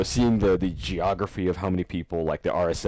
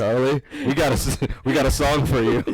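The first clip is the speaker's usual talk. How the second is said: imitating a whiny nerd singer; nasal-free whiny nerd, high and pushed; whining nerd voice; 6 semitones higher, 4 dB louder than usual. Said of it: "whining nerd voice".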